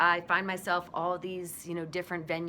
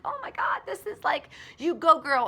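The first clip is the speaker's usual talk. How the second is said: put-on high, excited you go girl; root for her through the screen; cheering at the TV; 9 semitones higher, 5 dB louder than usual. Fan cheering the heroine on TV, high excited. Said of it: "I'm screaming at the television".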